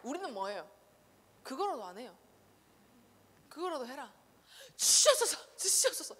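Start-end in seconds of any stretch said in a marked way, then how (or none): 4.8-6.1 high, loud begging cry; mock pleading prayer. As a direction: plead to God theatrically. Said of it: "이거라도 해라". (높은 소리로 간절히 비는 기도 흉내)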